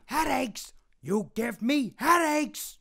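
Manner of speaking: high, slow complaining voice; whiny impression voice. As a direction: whine it high and drawn out.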